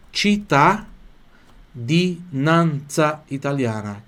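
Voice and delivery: cittadinanza stretched out very slowly; slow teacher model of cittadinanza italiana; slow pronunciation demo. Shown as a demonstration. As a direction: lay out cittadinanza syllable by syllable. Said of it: "então pronuncia assim".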